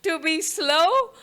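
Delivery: drawing the words out to show slowness; slowing down. Shown as a demonstration. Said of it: "I'm going to try".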